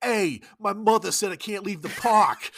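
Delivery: put-on very loud, high, thick New York accent. Retelling an eight-year-old girl's line from a Long Island movie: imitating thick New York accent. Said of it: "these kids are like super New York".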